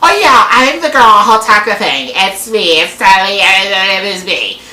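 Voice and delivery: gushing caller voice, put on; mock an over-eager girl on the phone; babbling mock excitement; imitated excitement. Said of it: "she's, like, excited".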